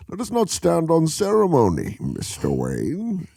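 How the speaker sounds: villain impression, redone. Retrying the Bane quote after flubbing it. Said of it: "I screwed that up".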